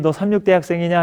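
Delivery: lightly retold happy surprise; glad recognition. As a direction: imitate someone delighted to find a connection. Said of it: "아주 반갑게".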